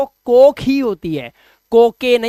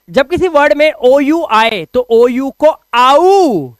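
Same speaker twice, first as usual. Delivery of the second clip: Shakti Kapoor impression; 4 semitones higher, 6 dB louder, slower than usual. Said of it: "मेरे को तो ये देखते ही शक्ति कपूर याद आ जाता है".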